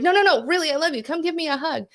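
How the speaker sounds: high-pitched, insistent motherly plea; tender pleading. Retold or imitated. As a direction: imitate a mother coaxing for a hug. Retold mother pleading for a hug.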